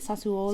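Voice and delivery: Sassuolo said the Italian way, tsa-SWO-lo; Italian pronunciation. Retold or imitated. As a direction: Sassuolo with an Italian ts and rolling vowels. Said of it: "I know how much you like to say".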